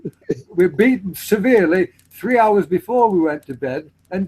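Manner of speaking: high-pitched mock hardship boast; hammed-up tale of woe; comic one-upmanship. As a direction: play up the misery to top them. Acting out hard-childhood one-upmanship sketch.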